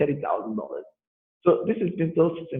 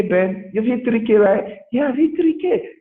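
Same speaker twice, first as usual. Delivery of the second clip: excited; 9 semitones higher, slower than usual. Retold or imitated. Acted call, excited.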